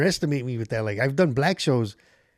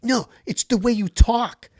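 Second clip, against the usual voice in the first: prim lady voice; 9 semitones higher, 3 dB louder, slower than usual. Retold or imitated. Heckler lady explains.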